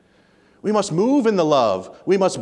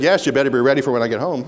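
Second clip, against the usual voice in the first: wife's retort; 6 semitones lower, much faster than usual. Retold or imitated. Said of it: "And she said".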